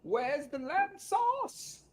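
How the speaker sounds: muted, very high, drawn-out mock chef yell; Gordon Ramsay. Ramsay fan repeats lamb sauce line, muted high mock yell. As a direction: yell it slowly in a small high voice, held back. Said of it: "Gordon Ramsay".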